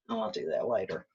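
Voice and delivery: lethargic. Retold or imitated. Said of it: "kind of lethargic".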